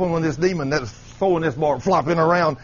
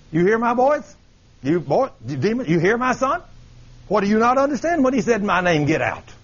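stern Lord backing his son; 3 semitones higher than usual. Acted. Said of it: "the Lord is sitting there saying".

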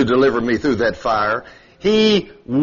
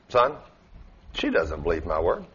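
much lower, soft and grave voice of God; 10 semitones lower, 7 dB quieter than usual. Retold or imitated. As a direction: speak low and calm as the Lord. God answering the preacher.

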